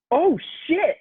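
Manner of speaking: high, loud startled cry; startled exclamation. Retold or imitated. Caught staring at a celebrity, high startled oh shit. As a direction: jump as if caught out.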